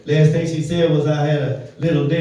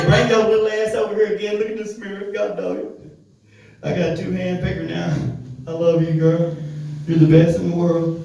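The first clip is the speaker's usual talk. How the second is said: put-on higher, giddy boyfriend voice; mock smitten boyfriend; 3 semitones higher than usual. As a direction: gush over her like a fool. He talks to short girlfriend.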